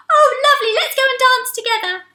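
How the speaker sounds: high, loud, happy; delighted. Acted. The octopus welcomes the friend, high and happy. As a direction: cheer it out.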